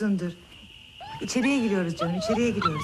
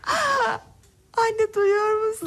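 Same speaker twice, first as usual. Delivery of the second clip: higher, slow astonished call; overwhelmed with wonder; excited amazement; 8 semitones higher, slower than usual. Acted. Sister speaks for first time.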